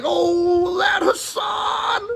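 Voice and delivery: high, stretched mocking cry of that Hassan; lightly mocked hysterical critic; mock outraged whine. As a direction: whine it like a hysterical hater, drawn out. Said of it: "I'm not like".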